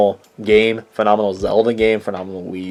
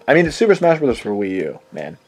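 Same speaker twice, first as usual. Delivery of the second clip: emphatic catchphrase. Pretend. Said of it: "I really am just doing that with every game".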